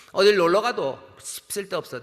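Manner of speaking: a lightly voiced overbearing father; bossy parent. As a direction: brush off the child's wish, slowly. Domineering parent voiced in sermon.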